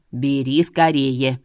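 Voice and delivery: very slow, low, loud urging; urgent old seer. A narrator's reading. Seer urges her to take the stones, low urgent. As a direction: press her to hurry, low.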